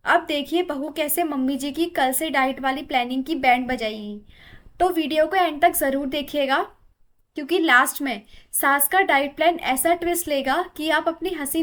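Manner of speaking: cheerful vlogger announcing today's sketch; energetic video intro. Acted. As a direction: hype up the skit for the viewers. YouTube skit intro to viewers.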